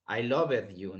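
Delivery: "loved" said wrongly as lov-ed; the mistake, lov-ed with an extra vowel; "loved" mispronounced as lov-ed; wrong two-syllable loved. Shown as a demonstration.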